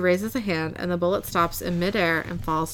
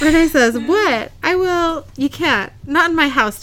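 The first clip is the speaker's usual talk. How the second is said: higher and louder, laughter in voice; laughing narration; 8 semitones higher, 6 dB louder than usual. Real, not acted. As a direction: giggle through the lines.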